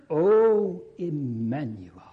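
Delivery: slow, loud, high, pleading cry; crying out to God. Retold or imitated. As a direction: call out to God with longing. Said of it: "he cries unto God".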